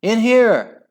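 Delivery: put-on mother calling her children into hiding; urgent cry. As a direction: call them to cover fast. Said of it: "cried Hyacinth".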